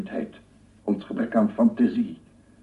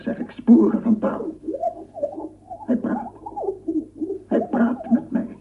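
higher, rapt wonder; enraptured. Acted. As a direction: marvel that the tree speaks. Tree talks, scientist enraptured.

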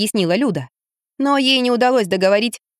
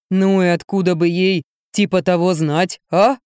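slow dim-witted man; 2 semitones lower than usual. A narrator's reading. Гриша бормочет жене, медленно и низко. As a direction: mumble it slow and thick.

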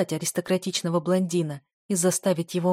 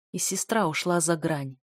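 usual speaking voice

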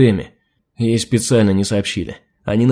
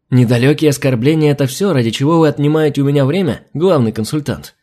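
bristling, raised voice; snapping; 3 semitones higher than usual. Acted. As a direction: snap back at him. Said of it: "Окрысилась адмирал".

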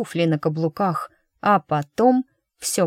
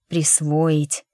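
ordinary delivery, nothing marked

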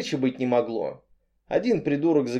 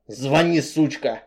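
getting angry; slower than usual. Acted. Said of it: "начал злиться парень".

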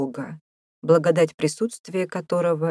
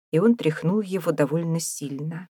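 usual speaking voice

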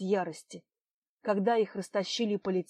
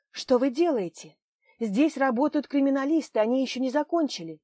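indignant call; 5 semitones higher, 6 dB louder than usual. Acted. Nadezhda confronts a stranger at the site.

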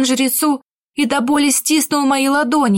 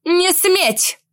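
higher, sharp stop order; commanding rebuke; 6 semitones higher than usual. A narrator's reading. Bride stopping the guards, sharp command. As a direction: halt the guards with one command. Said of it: "осадила гвардейцев".

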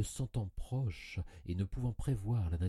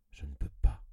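1 strained breathless despair; 4 semitones lower, 4 dB louder, faster than usual. A narrator's reading. Narrator despairs, can't rise.

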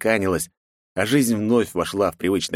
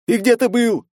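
much higher, louder, stressing где; crowd yelling again; 5 dB louder than usual. A narrator's reading. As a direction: repeat the accusation harder. Angry crowd yelling at knight.

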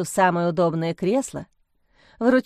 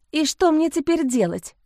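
sobbing; 7 semitones higher than usual. A narrator's reading. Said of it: "всхлипнула Лиза".

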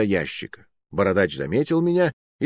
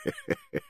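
mocking laugh; 10 dB quieter than usual. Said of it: "громко и издевательски расхохотался".

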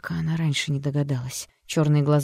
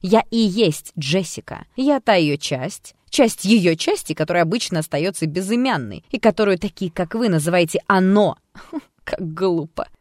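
eerie alter ego; 3 semitones higher, 6 dB louder than usual. Acted. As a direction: savour each word like a dark secret. Alter explains itself eerily.

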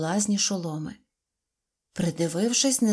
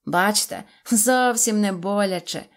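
mild triumph; 4 dB louder than usual. Acted. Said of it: "торжествуючи".

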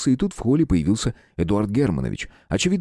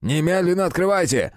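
booming shout; 8 semitones higher than usual. A narrator's reading. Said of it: "зычно прокричал он".

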